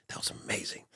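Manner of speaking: hushed whisper close to the ear; whispered praise. Retold or imitated. Boss whispering praise to the wrestler after the match. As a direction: whisper it right into his ear. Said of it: "grabs me by the head and goes".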